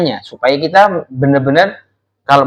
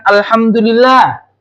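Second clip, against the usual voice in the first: raised model answer; 7 semitones higher, slower than usual. Shown as a demonstration.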